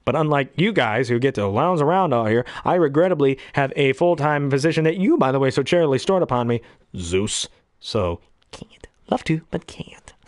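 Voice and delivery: quick, glib evil agent; fast-talking agent. Retold or imitated. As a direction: brush Zeus off smoothly. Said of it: "quick talk thing".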